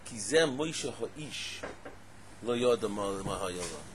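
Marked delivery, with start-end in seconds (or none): 0.0-1.6 slow reading, leaning on "ha'ish"; measured verse with weight on "ha'ish"; stress on ha'ish. Shown as a demonstration. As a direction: draw out "ha'ish" at the end. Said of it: "the emphasis on the pasuk".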